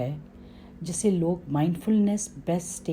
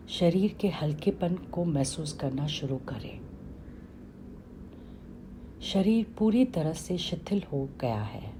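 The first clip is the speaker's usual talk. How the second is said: calm meditation guide with long pauses; settled, slightly softened instructions, falling at each phrase end; guided meditation; 5 dB quieter than usual. Acted. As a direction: lead listeners gently through a body scan, unhurried.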